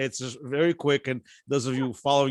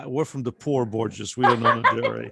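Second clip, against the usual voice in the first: slow, laughing through the words; laughing reply; 4 dB louder than usual. Retold or imitated. Host laughing while retelling his reply to relatives about the Borges. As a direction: chuckle as you give the punchline.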